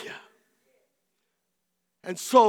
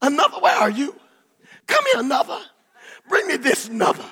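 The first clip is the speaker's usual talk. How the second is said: called out high, urging; a mother in labor crying out for the midwife; calling for the midwife; 6 semitones higher, faster than usual. Retold or imitated. Pregnant mother calling out for another. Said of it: "And she says".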